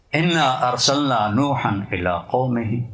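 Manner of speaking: slow chanted Arabic recitation; Quranic recitation. Retold or imitated. Imam leading prayer recites slowly to the congregation. Imam tries a third time.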